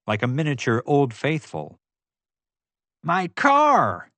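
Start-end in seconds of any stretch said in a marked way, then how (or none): 3.0-4.1 high, louder anguished wail. A narrator's reading. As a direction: cry out over the lost car. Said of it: "Morton wailed".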